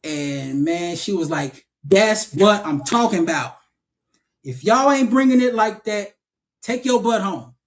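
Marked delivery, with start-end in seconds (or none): 1.8-7.5 raised-pitch challenge to the whole class; imitated emphatic approval. Acting teacher holds up a good scene to the class, emphatic. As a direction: play a tough teacher making an example.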